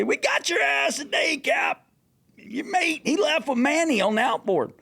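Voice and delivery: lightly voiced laughing rival crew; mocking dockhands. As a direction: rub it in like rival crews. Dock crews mocking the captain.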